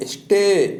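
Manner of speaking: स्टे said as the English word stay. Shown as a demonstration. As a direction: sound out स्टे after spelling it. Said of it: "S T A Y".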